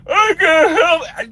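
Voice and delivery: high, loud mock-bawling wail; imitated bawling. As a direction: wail it out, imitating a man in tears. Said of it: "The dude is bawling".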